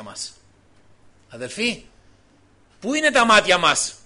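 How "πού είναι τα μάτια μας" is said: louder insistent question, stress on είναι; louder repeat. Real, not acted. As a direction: push the question out to the whole church.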